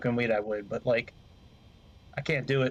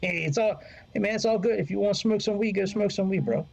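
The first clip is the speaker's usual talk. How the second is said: laid-back stoner bro; 7 semitones higher, faster than usual. Pretend.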